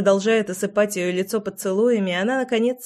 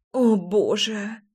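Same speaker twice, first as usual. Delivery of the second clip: grumbling; much slower than usual. A narrator's reading. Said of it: "пробурчала она".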